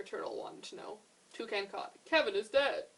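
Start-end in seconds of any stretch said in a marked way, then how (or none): 2.0-2.9 loud screech. A narrator's reading. Toucan screeches that Kevin is dead, loud. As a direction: shriek out the bad news. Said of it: "he screeched".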